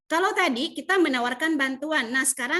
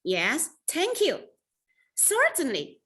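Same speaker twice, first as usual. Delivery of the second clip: pleased acceptance; 4 semitones higher, much slower than usual. Shown as a demonstration. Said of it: "nadanya itu yang menentukan bahwa Anda lagi nerima".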